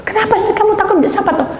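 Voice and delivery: high, loud disbelieving retort; incredulous outburst. Retold or imitated. Incredulous retort to whispering friend. (seruan heran, tinggi dan keras)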